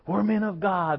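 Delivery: high-pitched mock rally cry; imitating a hyped-up rally speaker; stadium preacher rallying men. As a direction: call it out high to fire up the crowd. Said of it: "they're all jacked up".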